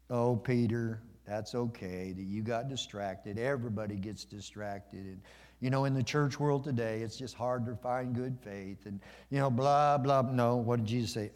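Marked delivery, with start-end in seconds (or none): 0.1-10.2 mock soothing. Mock version of Jesus consoling Peter.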